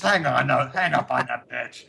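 mock indignant outburst. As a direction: break in as if outraged, played for laughs. A singer breaks in to stop the call.

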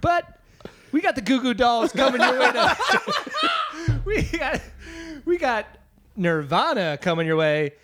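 upbeat DJ glossing over bad news; Casey Kasem voice. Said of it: "it's Casey Kasem".

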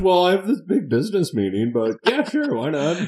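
high-pitched comic voice for a Seinfeld line; mock Seinfeld bit. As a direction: squeak it out as a sitcom character. Acting out Seinfeld scene.

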